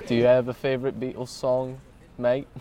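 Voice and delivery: playful fake British accent; lightly affected British accent; put-on British accent. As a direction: ask it as a would-be British mate. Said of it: "You can stop using the ... accent".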